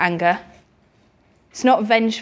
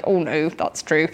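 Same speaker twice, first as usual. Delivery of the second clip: voicing children; 8 semitones lower, 4 dB quieter, slower than usual. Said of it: "There's a few children looking like".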